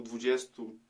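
ordinary talk

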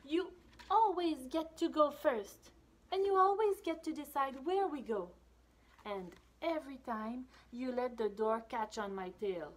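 high aggrieved little shadow; complaining shadow. Acted. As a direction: list the complaints. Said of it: "She says".

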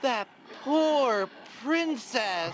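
slow, sorrowful pity. Acted. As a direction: drag it out mournfully. Storyteller mock pity.

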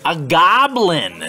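lively picture-book narration; read-aloud to children. A narrator's reading. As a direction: read it to little kids with bounce. Reads story to children.

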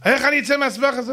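mild hammed-up weeping king; distraught king. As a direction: pour out despair to the advisor. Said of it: "המלך יושב ובוכה".

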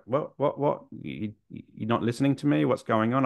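put-on a boy caught off guard, repeating what; taken aback. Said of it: "I think I was taken aback a bit".

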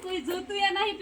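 lightly voiced scheming boy, thinking aloud; a hint of a sly village boy; boy eyeing a lone girl. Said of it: "તો હું કહું".

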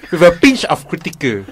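put-on Indian accent; amateur Indian accent; attempted Indian accent. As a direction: add it on in a mock Indian accent. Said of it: "in an Indian accent".

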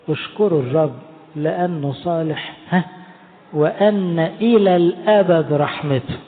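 slow, measured recitation of scripture; solemn slow chant of praise; psalm recital. Acted. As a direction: intone the psalm slowly, with weight. Quoting psalm slowly.

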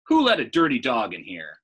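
loud furious yell; shouting manager. Acted. Manager still yelling about the dog, loud shout. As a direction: bark it out, outraged. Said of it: "he kept on shouting".

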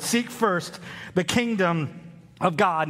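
Seek first the kingdom said slowly, each word weighted; slow emphatic reading. Shown as a demonstration. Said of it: "Look again at the sixth word".

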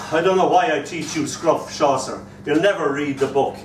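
mock weary scolding; sighing dismissal of hopeless pupils; exasperated teacher. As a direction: imitate a teacher despairing of the class. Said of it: "ever since our teacher sighing".

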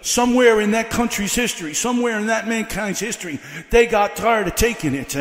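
rhythmic, driving sermon delivery; building preaching. Real, not acted. Preacher telling how a country stood up to the king, building preaching. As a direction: build the history into a rallying cry.

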